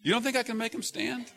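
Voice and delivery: a lightly voiced high rebuking Lord; the Lord scolding a judging believer; the Lord speaking. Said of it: "The Lord looks down and says".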